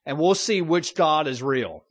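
mock-bold call-out that settles back toward plain; bold challenge. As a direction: throw down the challenge to the idol worshipers. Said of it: "call out pagan idol worshipers and say".

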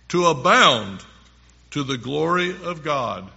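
emphatic, phrase-by-phrase Bible reading; scripture reading. Acted. Preacher reads Paul's letter to listeners, measured emphatic scripture reading. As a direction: read it out firmly, pausing between phrases.

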